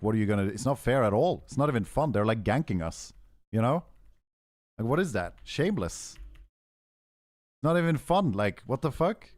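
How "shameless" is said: softer, scornful verdict on Shameless; disgusted. Real, not acted. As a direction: drop the voice and sneer Shameless. Complaining about the invaders.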